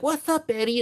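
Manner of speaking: high, breezy hello; casual greeting. Retold or imitated. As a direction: toss off a cool high hello.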